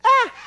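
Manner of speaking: brief acted demon shriek; short mock scream. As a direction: let out a quick pretend scream. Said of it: "the evil spirit screamed".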